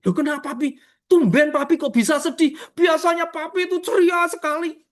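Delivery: a hint of a surprised little girl asking her papa; daughter's voice. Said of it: "Saya ngomong sampai anak saya".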